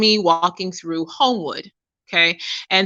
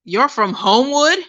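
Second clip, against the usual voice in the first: higher disbelieving question, rising on Homewood; incredulous repeat; 5 semitones higher than usual. Retold or imitated. Stranger doubting a local lives there, incredulous. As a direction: imitate a stranger who can't believe it.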